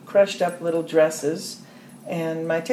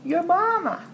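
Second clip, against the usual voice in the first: imitated scream; 12 semitones higher than usual. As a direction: imitate his scream high up without full volume. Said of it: "he screamed".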